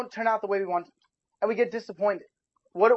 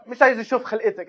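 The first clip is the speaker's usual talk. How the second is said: rapid upset mom; 2 semitones higher, much faster than usual. Retold or imitated. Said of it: "is what my mom always says".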